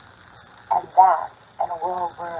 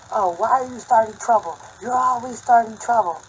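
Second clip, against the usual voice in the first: loud, higher-pitched mock husband; imitated scolding yell; 5 semitones higher, 10 dB louder than usual. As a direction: mimic a husband yelling blame. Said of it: "My husband starts screaming at me".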